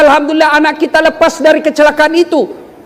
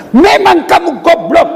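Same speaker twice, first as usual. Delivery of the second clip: insulting wife; 5 semitones higher, slower than usual. Acted. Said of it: "maki-maki, menghina suami".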